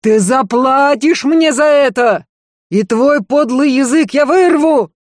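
громкий злой крик, выше; грозит вырвать язык; угроза в ярости. A narrator's reading. Угрозы в ссоре. (трагик в бешенстве угрожает жене)

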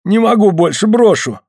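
high, pleading cry, a touch desperate. Acted. Smolkov pleads on the slope under the log, mild desperate cry. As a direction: beg to drop the load. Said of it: "Смольков взмолился".

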